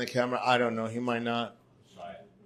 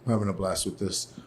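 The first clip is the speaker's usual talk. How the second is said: whisper; 4 semitones lower, 7 dB quieter than usual. Real, not acted. Whispered aside.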